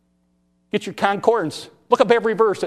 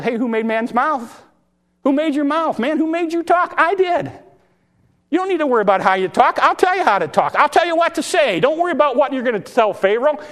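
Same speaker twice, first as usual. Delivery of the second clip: God's voice; 7 semitones higher than usual. Acted. God voiced rebuking Moses.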